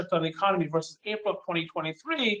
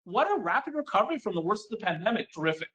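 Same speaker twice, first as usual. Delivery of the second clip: imitating a listener thrilled by the chart; mock gushing listener. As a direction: ham up the delighted fan. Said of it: "You say".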